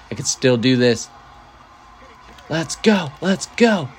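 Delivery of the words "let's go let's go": high, loud cheering; excited shout. Real, not acted. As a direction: cheer it like you won. Cheering her flaming table spot.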